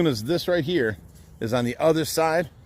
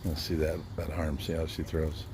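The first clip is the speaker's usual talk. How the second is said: hushed aside into the phone; softly narrating to the camera; whispering on the phone; 7 semitones lower, 10 dB quieter than usual. Real, not acted. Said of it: "Why are you whispering to your phone?".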